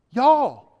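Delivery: a booming Southern Y'all to the room; emphatic Southern y'all. Shown as a demonstration. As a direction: call out Y'all in a Southern accent like a preacher. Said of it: "communicate that in the way Southerners can hear".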